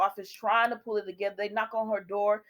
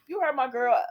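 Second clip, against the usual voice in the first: scolding; 4 semitones higher, 4 dB louder than usual. Pretend. Host scolds character Adam.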